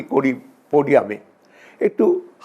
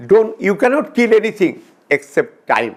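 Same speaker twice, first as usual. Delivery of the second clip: slow signboard reading; 3 semitones higher, much slower than usual. Shown as a demonstration. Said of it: "গেটে একটা signboard আছে".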